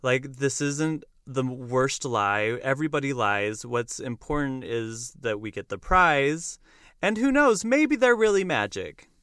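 a hint of the baker's wife egging him on; bossy wife. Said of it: "the wife basically says".

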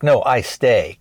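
lightly mocked Korean-accented English. Customer mocking how the clerk talks, light mock Korean accent. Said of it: "he kinda mocks how the guy talks".

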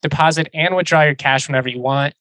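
upbeat sponsor read, bright pitch. Acted. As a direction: sell it like a radio spot. Reads sponsor ad copy.

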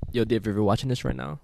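talking while chewing gum; words round a wad of gum. Real, not acted. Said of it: "let me spit out my gum".

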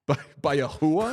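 "hua" as two syllables, HOO-ah; Sopranos pronunciation. Acted. Quoting The Sopranos to co-host, "hua" said HOO-ah. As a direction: say "hua" mobster-style, with a laugh. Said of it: "I've been watching The Sopranos a lot".

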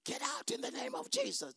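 soft, very high little plea; mock a feeble attempt at commanding; timid command. Believer orders the mountain out, timidly and much too softly. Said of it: "Say that louder".

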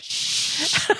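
breathy whispered shush; hushing. Retold or imitated. Friend hushing the group about the ice, whispered shush. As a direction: hush them in a whisper.

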